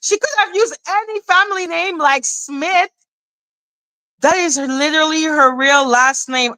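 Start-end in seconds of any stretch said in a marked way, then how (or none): 0.0-2.9 imitating her, chest out and proud; mocking chest voice. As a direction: mimic her smug chest voice. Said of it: "she literally said with her chest".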